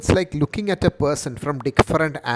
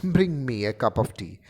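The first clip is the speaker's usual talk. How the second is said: mocking; 3 semitones lower than usual. Shown as a demonstration. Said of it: "Or mock".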